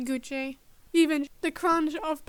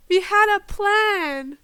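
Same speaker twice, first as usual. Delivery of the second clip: slow, higher, aggrieved huff; huffy protest; 5 semitones higher, 8 dB louder, slower than usual. A narrator's reading. Bird Madonna scolding the runaway, huffing. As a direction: drag out the complaint in another voice. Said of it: "Madonna huffed".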